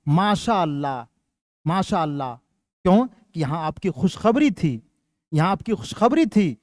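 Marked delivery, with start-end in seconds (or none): 0.1-2.3 congratulation. Shown as a demonstration. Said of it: "آپ نے کہا".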